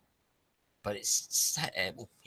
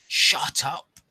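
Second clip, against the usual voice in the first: a loud, high, furious roar; 12 semitones higher, 12 dB louder than usual. A narrator's reading. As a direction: bellow it at the sea. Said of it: "Seth roared again".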